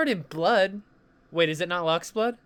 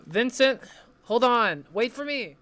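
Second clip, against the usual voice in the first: calling out; 6 semitones higher than usual. Acted. Calling after departing friend.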